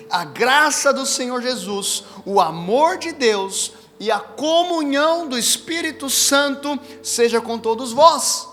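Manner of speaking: slow, solemn recitation of a blessing; scripture benediction. Acted. Pastor reciting Paul's blessing over the church, slow and solemn. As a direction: bless the congregation slowly, word by word.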